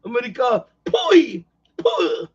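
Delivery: Iron Sheik impression. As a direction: spit out the pui like a wrestling villain. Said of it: "Like the Iron Sheik".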